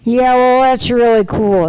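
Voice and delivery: lightly voiced slow teen; a touch of slow teen drawl; Jake's voice. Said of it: "he talks like that".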